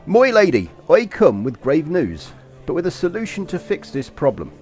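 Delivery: put-on courtly Basque accent, grave and deliberate. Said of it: "did you like my authentic Basque accent".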